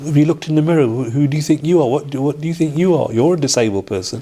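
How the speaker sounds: high, incredulous wife; a hint of a baffled wife; exasperated wife. Wife retorting in retold argument.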